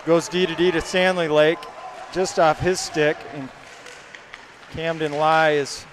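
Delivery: brisk live hockey call; play-by-play. Acted. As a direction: call the action as it happens.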